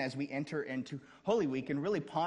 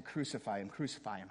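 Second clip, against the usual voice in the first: hushed echo; 5 semitones lower, 7 dB quieter than usual. Retold or imitated. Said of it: "they go from".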